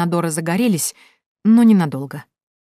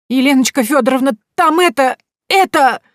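breathless, high excited shout; a boy bursting with news, calling out; 8 semitones higher, 7 dB louder than usual. A narrator's reading. Boy running back, excitedly calling the heroine.

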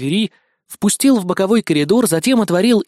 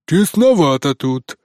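piglet voice; slower than usual. A narrator's reading. Zhorik's piglet voice.

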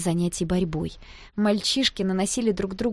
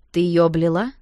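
accusing; 6 dB louder than usual. A narrator's reading. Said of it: "осведомился он".

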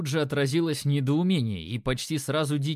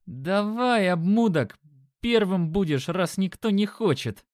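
higher, louder nasty squeaky yell; squeaky brute shouting; 6 semitones higher, 4 dB louder than usual. Acted. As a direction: bark it out in a whiny high voice. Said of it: "Голос у этого здоровяка оказался противным и чуть песклявым".

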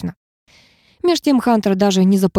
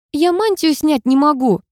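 sarcastic; 7 semitones higher than usual. A narrator's reading. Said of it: "язвительно напомнила я".

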